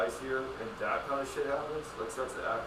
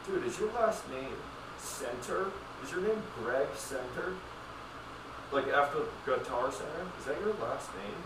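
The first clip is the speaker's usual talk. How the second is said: higher, slower, sneering put-down; mock scolding; 5 semitones higher, slower than usual. Ranting at a store clerk, high and sneering. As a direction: needle him with mock disbelief.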